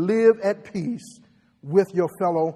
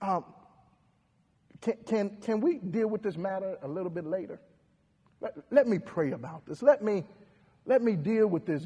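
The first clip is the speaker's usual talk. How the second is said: softer, hesitant plea for later; quiet request; 2 semitones lower, 8 dB quieter than usual. Retold or imitated. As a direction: ask softly to wait. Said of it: "if somebody say".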